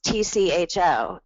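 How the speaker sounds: T C H O said as four separate letters; spelled out. Shown as a demonstration. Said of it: "somebody thinks it's pronounced".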